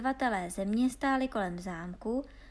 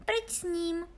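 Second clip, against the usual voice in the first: princess dismissing a suitor, higher voice; odmítavá princezna; 8 semitones higher than usual. Acted. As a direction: wave him off like a haughty princess. (vyšším hlasem odmítavá princezna)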